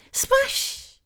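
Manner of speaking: very high, airy little splash; imitating cute toddler. Mum imitating her son in the bath, cute toddler voice. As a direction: copy a small child's excited new word. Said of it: "got a very cute voice".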